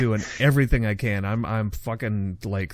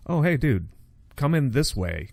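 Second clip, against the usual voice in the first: higher, bright call to a friend; calling over; 6 semitones higher than usual. Retold or imitated. Radio buddy calling him in, a higher call.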